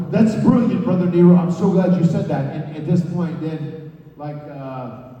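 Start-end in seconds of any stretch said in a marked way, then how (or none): 0.1-2.5 high, loud hammed-up gratitude; mock delighted. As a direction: gush over the idea theatrically. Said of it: "And then I go".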